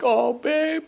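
high, put-on wife voice, drawn out at the end; mock a wife's high-voiced fussing; imitating his wife. Wife sees husband walk in tearful, imitated high voice. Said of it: "She's like".

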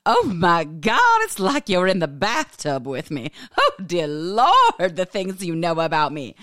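drawn-out, hammed-up embarrassed exclaiming; mock mortification. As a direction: play up being overexposed, slowly on the exclamations. Acted mortified reaction to listeners.

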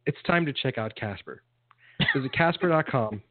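casual radio ad read; live ad read. Pretend. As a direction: read it like a host-read ad. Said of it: "Three, two, one. You're on".

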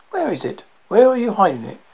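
loud accusing shout, pitch up. A narrator's reading. Crazed old man shouting at his friend, accusing shout. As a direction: demand it in a frantic shout. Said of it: "Ego shouted".

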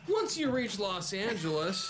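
grand narration. A narrator's reading. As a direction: announce the next chapter grandly over the table. GM grandly resumes over the joking.

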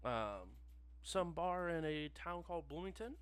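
polished phone rep voice; customer service voice. Acted. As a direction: slick help line operator. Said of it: "familiar customer service voice".

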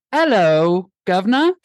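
hammed-up British greeting; a cheeky put-on British "'ello, guv'nor"; mock British accent. Host greets co-host back from the UK, mock British.

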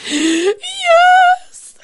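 a high, loud wailing sob of a yes; imitating mom sobbing. Mom admits crying over the show, high wailing sob. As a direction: wail the yes like a weepy mother. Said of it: "are you crying like that".

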